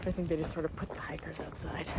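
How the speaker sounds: soft conspiratorial whisper; whispered aside. Real, not acted. Hiker telling viewers why she ate outside, whispered. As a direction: drop to a whisper like sharing a secret.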